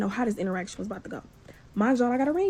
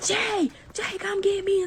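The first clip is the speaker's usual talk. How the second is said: retold scream; 8 semitones higher, slower than usual. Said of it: "she started screaming".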